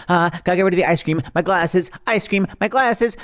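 the frantic mom who can't pick; frantic mock panic. Frantic mother juggling items.

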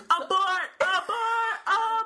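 loud, high-pitched mock emergency call; alarmed shout. Viewer warning Blake off proposing, mock-alarmed shout. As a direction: cry it out like an urgent warning.

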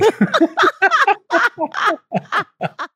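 a long, very high-pitched real laugh. Real, not acted. Laughs at the joke.

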